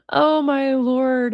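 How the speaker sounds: slow, stretched out oh my lord; drawn-out disbelief. Real, not acted. Streamer reacting to the message in drawn-out disbelief. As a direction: let the oh hang in disbelief.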